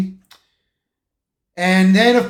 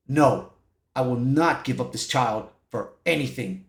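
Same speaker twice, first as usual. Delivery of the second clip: upset refusal; 7 semitones lower, 8 dB quieter than usual. Retold or imitated. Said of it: "Sue was very upset with Reed".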